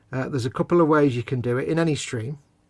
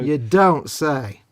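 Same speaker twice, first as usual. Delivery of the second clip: sarcastic; 5 dB louder, much slower than usual. Acted. Mock reply to Cole's quirks.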